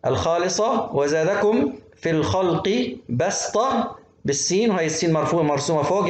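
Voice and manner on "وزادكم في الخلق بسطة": بسطة with a plain, light "s"; seen, not sad. Shown as a demonstration. Teacher reciting from al-A'raf, seen in بسطة. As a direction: keep the "s" of بسطة unemphatic. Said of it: "اقرأ سين مش صاد".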